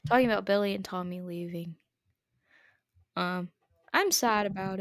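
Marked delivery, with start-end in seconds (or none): 0.1-1.8 repeating to be heard. Real, not acted. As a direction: say it over, projected a little more. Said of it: "Oh, you can't hear me".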